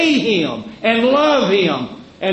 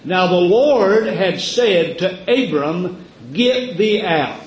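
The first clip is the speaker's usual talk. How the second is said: slow, measured scripture reading; solemn reading; slower than usual. Acted. Preacher reads Genesis to the church, slow and solemn. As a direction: let the command land. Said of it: "the Holy Spirit says it like this".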